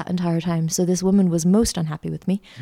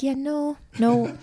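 refusing monk; 8 semitones higher, slower than usual. Retold or imitated.

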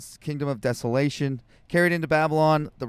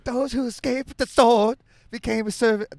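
higher-pitched, badly faked Chinese-Jewish accent; hammed-up Chinese-Jewish accent, pitched up; attempted Chinese Jewish accent; 7 semitones higher, 4 dB louder than usual. Shown as a demonstration. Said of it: "I can't do it either".

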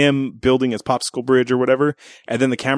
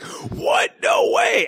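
huge high mock gasp of disbelief; astonished child; much slower than usual. Six-year-old amazed by the movie twist, high astonished squeal. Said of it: "so I was like".

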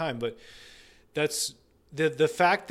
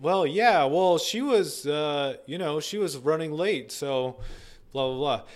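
defensive client; 3 semitones higher, 3 dB louder than usual. Retold or imitated. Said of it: "if he said".

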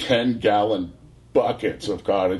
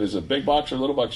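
fast, eager, higher question; 6 semitones higher, much faster than usual. Retold or imitated. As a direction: rattle it off, excited about a train. Eager to know parcel size.

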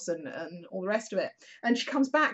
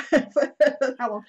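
laughing, louder and slow; 5 semitones higher, 9 dB louder, slower than usual. Real, not acted. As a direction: chuckle through it.

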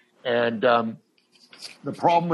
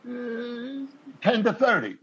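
Hank repeating; 10 semitones higher, slower than usual. Retold or imitated. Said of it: "he goes".

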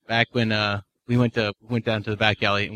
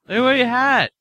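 mock demanding girl; 12 semitones higher, 3 dB louder, slower than usual.

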